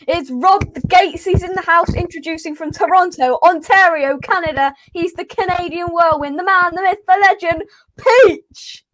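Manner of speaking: playful MC build-up, punching the final name; mock ring announcer. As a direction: hype introduction building to the name. Mock ring-announcer introduction of the guest.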